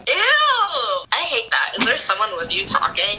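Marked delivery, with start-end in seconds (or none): 0.1-1.8 loud, high grossed-out shriek; disgusted. Real, not acted. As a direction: recoil from it loudly. Disgust at the sultry voice.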